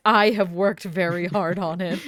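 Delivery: loud dopey mimicking echo; dopey cartoon bellow. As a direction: bellow it back like a cartoon dope. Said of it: "as you say".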